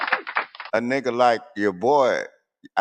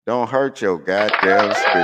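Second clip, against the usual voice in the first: "Don't hurt your goddamn speakers" said louder with a punch on "hurt"; louder repeat; 6 dB louder than usual. Real, not acted. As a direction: hit it again louder as a warning. Warning listeners about speakers.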